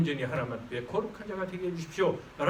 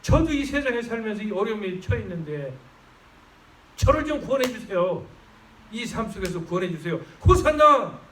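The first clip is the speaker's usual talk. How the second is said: building plea bursting into a loud, higher Hosanna; plead, then shout it to heaven; crying out Hosanna; 4 semitones higher, 3 dB louder than usual. Shown as a demonstration. Preacher shows how to cry out in prayer, building to a shout. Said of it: "이렇게 외치시면서".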